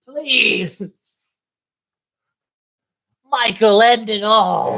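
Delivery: high, hammed-up begging; mock pleading. Begging Michael to take Billy, high mock plea.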